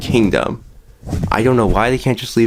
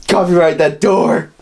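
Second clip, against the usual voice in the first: put-on gravelly old tycoon; 7 semitones higher than usual. Boss-style order.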